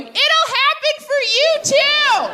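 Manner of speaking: high sing-song reassurance; a smug friend's sweet pity; mock consoling. Friend outside glass consoling.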